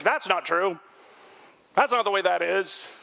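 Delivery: flat, blunt, know-it-all correction; curt dismissive denial; blunt contradiction. Retold or imitated. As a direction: shut the other person down. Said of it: "he wouldn't say".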